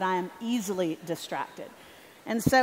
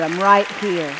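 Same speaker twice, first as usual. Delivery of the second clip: reassuring voice of God; 2 semitones lower, 9 dB louder than usual. Retold or imitated. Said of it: "I sensed God through his spirit say".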